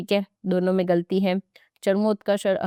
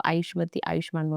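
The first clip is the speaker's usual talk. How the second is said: quiet blessing; 5 dB quieter than usual. Pretend. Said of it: "जो भी मुझसे छोटे".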